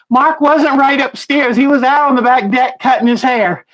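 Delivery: breathless after climbing stairs; puffing from the stairs; out of breath. Real, not acted. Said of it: "I'm out of breath".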